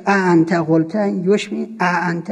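ا held like retching; imitating retching sound. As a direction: mimic a gagging glottal ا before انت.

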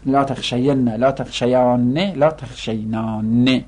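sing-song drill of the negated forms; rhythmic classroom chanting of verb forms; paradigm recitation. Acted. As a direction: chant each form with a lilt.

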